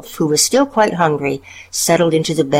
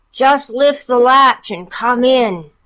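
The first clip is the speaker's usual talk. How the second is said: high, slow fake granny; wolf putting on granny voice; 8 semitones higher, 4 dB louder than usual. A narrator's reading. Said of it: "hoarseness of Grandmother's voice".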